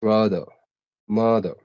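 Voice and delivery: "brother, mother" ending in "uh", no r; dropped final r. Shown as a demonstration. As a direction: say "brother" and "mother" without the last r. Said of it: "they say father".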